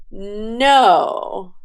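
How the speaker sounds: drawn-out NO that rises, then falls; refusing no. Shown as a demonstration. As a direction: turn it down with a long, falling "No". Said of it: "he shook his head and said".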